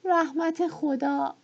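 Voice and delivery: frustrated widow swearing aloud; shouted oath. A narrator's reading. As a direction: let the curse burst out slowly. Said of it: "بالاخره فریاد زد".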